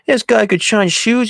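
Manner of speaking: high, loud, drawn-out mock praise; imitated teasing boast. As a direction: play a loudmouth ribbing someone slowly. Acting Billy's teasing boast.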